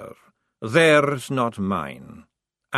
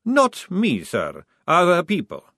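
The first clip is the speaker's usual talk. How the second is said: patient; 4 semitones higher, 4 dB louder than usual. Acted. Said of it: "said Maledict patiently".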